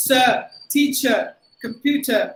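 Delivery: "teacher" and "computer" ending in uh; silent R. Shown as a demonstration. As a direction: drop every final r, "Sir" as suh. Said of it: "So you have to say".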